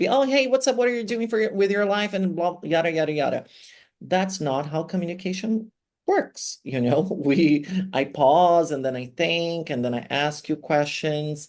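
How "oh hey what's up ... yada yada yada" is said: rushed, pitched-up, rattled-off casual chatter. Explaining teacher speech, she shows how she doesn't talk, speaking really fast. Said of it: "I don't need to speak really fast".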